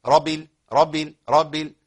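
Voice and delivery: رب with the ba clearly doubled into the next word; doubled ba held. Shown as a demonstration. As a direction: press the shadda of ba in رب. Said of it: "وأقول إيه؟". (إظهار شدة الباء في رب العالمين)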